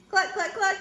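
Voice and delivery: high, short staccato clucks; hen clucks. A narrator's reading. Hen answering from under the mask, high quick clucking. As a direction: cluck three times like a hen. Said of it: "says the hen".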